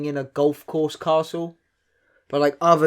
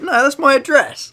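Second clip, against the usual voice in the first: silly sketch voice; 11 semitones higher, 7 dB louder, slower than usual. Retold or imitated. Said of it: "He's like".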